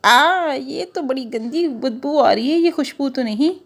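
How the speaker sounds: wrinkle your nose at the stink; flower disgusted by smell. Acted. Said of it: "फूल ने प्याज की खुशबू सूंघी तो कहती".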